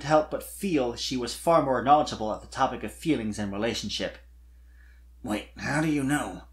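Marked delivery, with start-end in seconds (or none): 5.2-6.4 Spike caught off guard; sharp dragon question. Acted. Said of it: "looking at her sharply".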